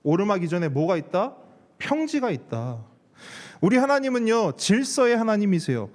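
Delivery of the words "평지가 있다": usual speaking voice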